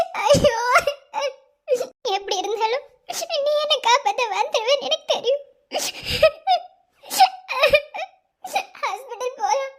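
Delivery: tearful words broken by sobs; sobbing. Acted. Wife sobs over her bleeding husband. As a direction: cry through the words, barely holding on.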